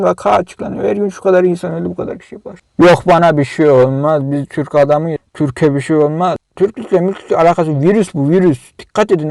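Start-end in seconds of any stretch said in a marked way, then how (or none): 2.8-6.4 mocking careless man. Mocking careless mask refusers.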